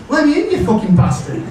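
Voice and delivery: high, fast angry yell; angry shout. Retold or imitated. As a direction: bark it from the garden. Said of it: "He says".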